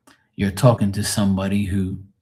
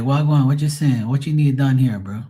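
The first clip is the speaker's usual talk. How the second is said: higher, casual Bermudian talk; Bermudian accent; 4 semitones higher than usual. Acted. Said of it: "if I'm talking to a Bermudian".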